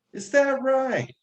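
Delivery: imitating grandmother's lilting tone; grandmother's Japanese lilt. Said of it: "But she would say it".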